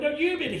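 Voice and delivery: high-pitched swoop on "you"; bickering, stress on YOU. Acted. Back-and-forth row with dad.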